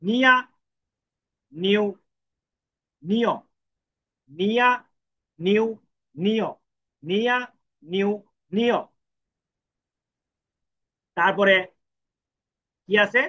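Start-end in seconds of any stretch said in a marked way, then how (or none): 0.0-8.8 নিয়া, নিউ, নিয় read as nya, nyu, nyo, one syllable at a time; syllable drill. Shown as a demonstration. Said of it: "নির সাথে ইয়া".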